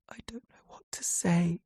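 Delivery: hushed, teary whisper; whispering helplessly to his sister. A narrator's reading. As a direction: barely breathe the words out. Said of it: "I whisper".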